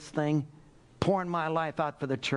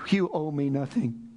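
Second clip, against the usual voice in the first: ordinary delivery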